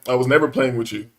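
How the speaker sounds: low, unprovoked denial; very calm. Retold or imitated. Man denying the clerk's accusation, very calmly. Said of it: "I'm very calmly".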